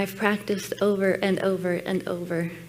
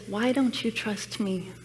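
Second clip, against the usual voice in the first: God's gentle voice. Retold or imitated. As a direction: let the question land slowly. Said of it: "And he says".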